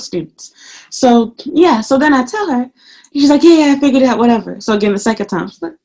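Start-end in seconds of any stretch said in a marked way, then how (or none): 3.4-4.6 mimicked dismissive coworker.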